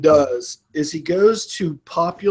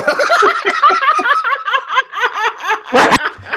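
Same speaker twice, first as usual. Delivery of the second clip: big high laugh. Real, not acted. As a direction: let out a shrieking laugh. Co-host bursts out laughing.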